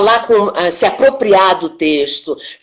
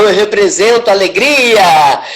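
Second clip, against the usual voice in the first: caricatured joy, louder swell on the last word; mock joy; 4 dB louder than usual. Shown as a demonstration. Actress showing how fake acting represents joy, mock-joyful. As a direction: put on exaggerated, unfelt happiness. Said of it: "Representar é você fazer alguma coisa que você não está realmente sentindo".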